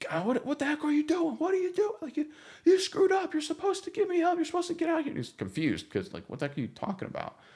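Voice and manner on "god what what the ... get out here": acted-out exasperated, frustrated yell, very high-pitched. A football tackle retells yelling at the guard next to him after getting beat. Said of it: "I yelled at my guard next to me".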